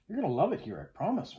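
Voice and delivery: put-on high, eager girlish chatter; excited babbling. A narrator's reading. Maria eagerly tells her friend about the stable, babbling excitedly. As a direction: gush on, pitch swooping up high. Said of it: "Maria babbled on".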